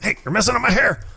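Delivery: very high, fast and laughing; shrunken head voice. Retold or imitated. Shrunken Beetlejuice complains to the headhunter, high squeak. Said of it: "He's like".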